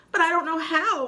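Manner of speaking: high, loud squeak; scared little spider squeaking; squeaking spider boy. Acted. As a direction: squeak in panic. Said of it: "I squeaked".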